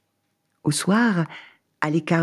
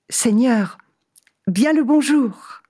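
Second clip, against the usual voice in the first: cheerful traveller; 7 semitones higher than usual. Acted. Man says goodbye.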